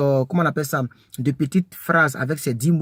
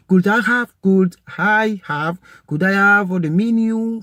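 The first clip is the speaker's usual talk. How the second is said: could I have the menu asked higher and polite; polite request; 5 semitones higher, 4 dB louder than usual. Shown as a demonstration. Teacher demonstrating a polite question at a restaurant. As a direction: model the question. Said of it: "modelling the polite question".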